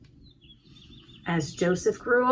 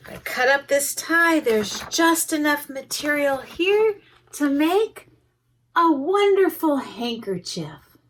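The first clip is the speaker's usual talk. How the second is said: grandpa voice; 5 semitones higher than usual. Acted.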